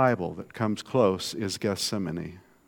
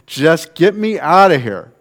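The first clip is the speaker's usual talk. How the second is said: higher, louder mock plea; exasperated Jeremiah; 6 semitones higher, 12 dB louder than usual. Preacher voicing Jeremiah wanting out, mock exasperated. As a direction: throw up your hands and beg out. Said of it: "Jeremiah is like".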